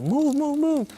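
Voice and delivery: high, quick chant of a fed-up queue; imitated impatient crowd. Impatient queue voiced in a story.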